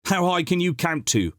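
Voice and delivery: a cousin heckling the housekeeper. A narrator's reading. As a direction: jeer from the back. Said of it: "heckled another voice".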